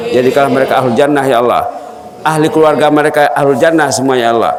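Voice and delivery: earnest prayer voice, lightly chanted; closing prayer. Acted. Preacher prays for the Darussalam students, earnest devotion. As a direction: pray over the students with devotion.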